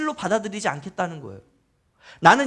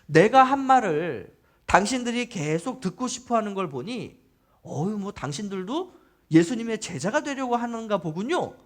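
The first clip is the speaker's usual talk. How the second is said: mock-surprised sarcastic jab. Healed blind man taunting the Pharisees, sarcastic. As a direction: needle them with feigned realization. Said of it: "어떻게 비꼬냐면".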